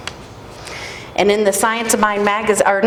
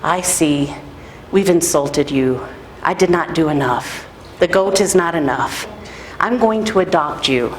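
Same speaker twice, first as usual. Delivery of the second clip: lowered elder voice; 4 semitones lower than usual. Retold or imitated. Elder voiced in retold story.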